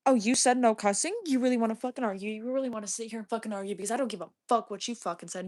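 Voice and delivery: rapid-fire confrontational rant; angry challenge. Real, not acted. Streamer challenging a viewer who objected to cussing, angry. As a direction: go at them fast, itching to argue.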